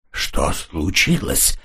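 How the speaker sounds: slow, strained, frightened words; хрипло; hoarsely forced out. A narrator's reading. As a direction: squeeze out the question in shock. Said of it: "хрипло выдавил он".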